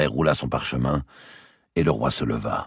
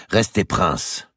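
slow, firm command, slightly raised; hard voice; 6 semitones higher, 4 dB louder, much slower than usual. A narrator's reading. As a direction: order him sternly and deliberately. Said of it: "la voix dure d'Isabelle d'Angleterre".

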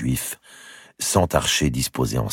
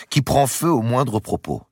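mocking queen; 11 semitones higher, 3 dB louder than usual. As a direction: drag it out to mock him. Marguerite mocking her lover.

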